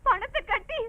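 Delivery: softly sobbed plea; tearful pleading. Acted. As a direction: plead through tears. Daughter crying about paying the bill. (அழுகையோடு கெஞ்சல்)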